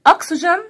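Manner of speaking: Oxygen said high and rising, clearly sounded out; teacher voice modelling Oxygen; teacher model word. Shown as a demonstration. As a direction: model Oxygen for the class to repeat. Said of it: "model word for class".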